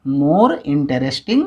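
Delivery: very slow, spelled out for the class; dictating slowly to students; slow dictation. Shown as a demonstration. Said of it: "यहाँ भी वैसे ही हो जाएगा".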